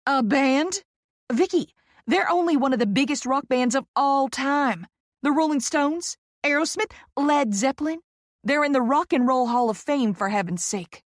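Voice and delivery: high, loud scandalised gush; gasping disbelief. A narrator's reading. Poppy schooling Vicky on a famous band, gasping disbelief. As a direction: sound appalled they don't know, Southern and emphatic. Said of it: "Poppy gasps".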